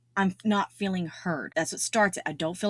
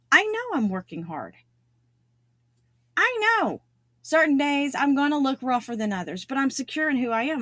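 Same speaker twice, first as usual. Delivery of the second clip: ordinary talk, nothing marked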